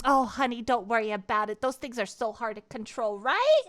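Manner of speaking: imitating a sweet older lady; sweet counter lady. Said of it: "the lady behind him at the counter was like".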